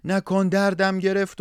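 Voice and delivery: high pained demon cry of stop stop it hurts. Acted. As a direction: howl it like a hurt giant demon. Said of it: "دیو داد زد، داد زد که".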